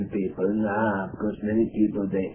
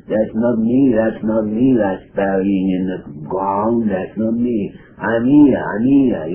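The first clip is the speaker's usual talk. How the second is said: louder, pressing protest from the unseen dead; a departed soul protesting to grieving family, louder; insistent protest; 4 dB louder than usual. Retold or imitated. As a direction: insist you are still here, a bit louder. Dead person insisting they live.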